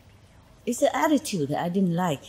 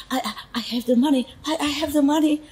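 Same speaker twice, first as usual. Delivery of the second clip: high, stammered imitation of someone begging; imitated plea, much higher than usual; pitiful pleading; 7 semitones higher, faster than usual. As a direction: act out a pitiful plea, pitched up and tripping on the first word. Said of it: "So pitiful, you know".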